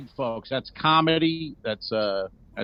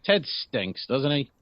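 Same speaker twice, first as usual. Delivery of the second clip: whispered aside; whispered gossip; 5 dB quieter, slower than usual. Real, not acted. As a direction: breathe it like a secret. Whispered aside about Ted.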